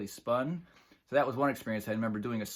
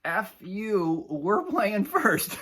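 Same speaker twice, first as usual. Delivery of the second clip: loud, higher, slow taunting retort; drummer's comeback; 9 semitones higher, 8 dB louder, much slower than usual. Retold or imitated. Drummer taunting the Doctor Dirty crowd, loud slow jeer. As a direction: fire it back at the crowd with glee. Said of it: "And he goes".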